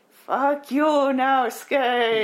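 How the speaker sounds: loud, high cry of fury; furious shout. Acted. Ghost cursing the man who wronged her, furious shout. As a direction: hurl the curse at him. Ghost Iwa curses Naosuke.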